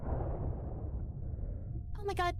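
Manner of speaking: a tense breathless gasp; breathless whisper. Real, not acted. Racing to the ship, panicking.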